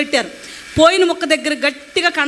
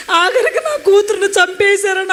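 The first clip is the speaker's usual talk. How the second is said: slow, higher wail of a weeping mother, retold with a sob; imitating mother crying; 4 semitones higher, slower than usual. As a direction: let the mother's grief break through, slowly. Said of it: "అమ్మ ఏడుస్తుంది". (ఏడుస్తున్న అమ్మను అనుకరిస్తూ, నెమ్మదిగా, ఎత్తైన గొంతుతో)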